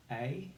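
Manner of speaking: "A" said as a single long ay; phonics sound A. Shown as a demonstration. Teacher sounding out the first syllable of acorn. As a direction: sound out "A" slowly and clearly. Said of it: "And we say".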